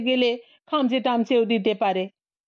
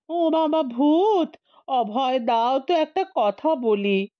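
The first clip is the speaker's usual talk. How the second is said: meek whine; 3 semitones higher than usual. Acted. The old man meekly begs the ghost, whining. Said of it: "মিনমিনে সুরে লোকটা বলল".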